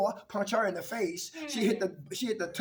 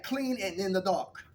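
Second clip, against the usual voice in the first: laughing punchline. Real, not acted. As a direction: crack up on the line. Punchline said laughing, then repeated.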